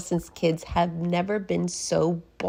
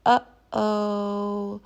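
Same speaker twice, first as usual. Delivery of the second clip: worried whisper; 4 semitones higher than usual. Acted. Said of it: "whispered the kids".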